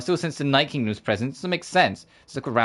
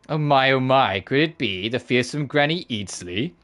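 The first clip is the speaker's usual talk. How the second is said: a lightly voiced mocking villain, slowing on the question; Patrick Seitz impersonation; slower than usual. Streamer imitating the voice actor for the rat villain, lightly done. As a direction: tease the old lady with sly mock politeness. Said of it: "my best Patrick Seitz impersonation".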